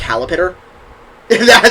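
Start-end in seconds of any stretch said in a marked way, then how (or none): 0.0-0.5 "Calipitter" for caterpillar, Southern style. Shown as a demonstration. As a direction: say "Calipitter" with the syllables swapped, Southern. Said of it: "always shows my Southern accent".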